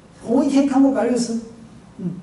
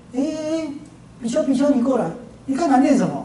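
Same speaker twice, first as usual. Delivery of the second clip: higher-pitched teacher calling a pupil over; acted-out master questioning his disciple; stern summons; 4 semitones higher than usual. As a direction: call the pupil over and demand an answer. 师父叫住徒弟盘问.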